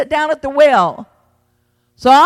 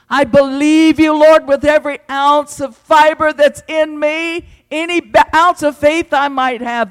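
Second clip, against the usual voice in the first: loud, raised plea of faith; impassioned declaration; 4 semitones higher, 5 dB louder than usual. Acted. Preacher tells the Lord he still believes, impassioned. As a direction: declare it fervently at higher pitch.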